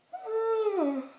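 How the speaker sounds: long high sighing yawn; big sigh. Real, not acted. Tired vlogger sighing mid-sentence. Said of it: "Excuse me".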